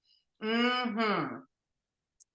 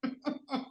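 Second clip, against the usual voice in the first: dusty cough; 5 semitones higher, 9 dB quieter than usual. Real, not acted. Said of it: "I just swallowed some dust".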